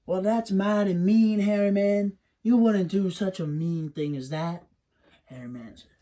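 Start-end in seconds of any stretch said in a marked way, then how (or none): 0.1-4.7 higher scolding mother; mother scolding the monster, voice raised; Wiley's mammy. Acted. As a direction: chide him, mildly offended. Mammy scolds hairy man.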